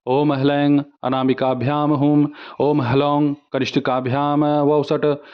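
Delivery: monotone Sanskrit chant; mantra recitation. Shown as a demonstration. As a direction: intone each line on a level note. (एक सुर में मंत्रोच्चार)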